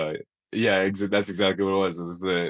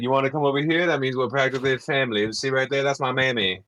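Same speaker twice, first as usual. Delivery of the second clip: slightly higher used-car salesman voice; Bernie Mac; 4 semitones higher, faster than usual. Acted. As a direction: lightly imitate a pushy salesman. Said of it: "He's just like".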